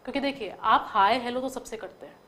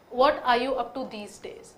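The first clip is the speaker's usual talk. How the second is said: slow; much slower than usual. Shown as a demonstration.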